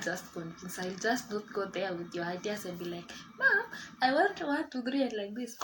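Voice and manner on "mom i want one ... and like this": high, loud hammed-up begging; hammed-up daughter pleading with her mother; mock pleading to mom. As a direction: imitate a kid pestering a parent. Mock pitching idea to mother.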